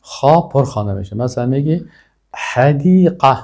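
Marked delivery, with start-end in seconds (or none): 2.3-3.4 حدیقه with a soft breathy h, drawn out slowly; soft h in hadiqa. Shown as a demonstration. Teacher drilling the class on حدیقه, soft h spoken slowly. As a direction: say حدیقه slowly, the ح light and airy.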